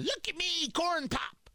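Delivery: high, put-on old Joe Biden voice; mock Biden voice, an impression of a producer's impression; terrible Biden impression. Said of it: "that's a terrible Biden impression".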